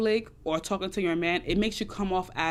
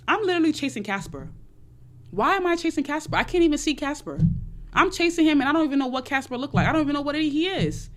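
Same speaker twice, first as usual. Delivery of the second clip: higher-pitched, incredulous self-questioning; exasperated realization; 5 semitones higher than usual. Acted. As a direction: act out talking yourself into a baffled realization. Acted self-talk of dawning realization.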